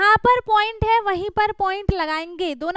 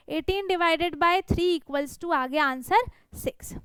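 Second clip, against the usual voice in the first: reading out slowly; much slower than usual. Shown as a demonstration. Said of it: "reading division fact slowly".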